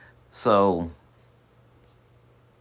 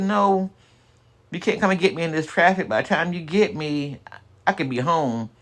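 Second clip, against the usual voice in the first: high pitched; 8 semitones higher than usual. Retold or imitated. Own quote, pitched up.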